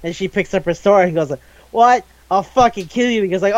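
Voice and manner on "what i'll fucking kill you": higher-pitched mock-angry threat; mad. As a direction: imitate an outraged character snapping into a threat. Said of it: "she gets mad".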